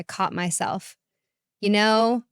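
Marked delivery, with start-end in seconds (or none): 1.6-2.2 sultry murmur. A narrator's reading. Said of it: "she murmured in a sultry voice".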